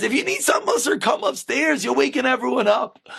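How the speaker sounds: high-voiced old lady, lightly acted; a hint of a nagging old woman; little old lady. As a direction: scold him as an old lady would. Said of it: "a little old lady come down and says".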